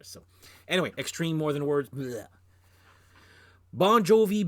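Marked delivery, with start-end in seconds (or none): 1.9-2.3 disgusted bleh. Shown as a demonstration. Dismisses song with disgusted noise.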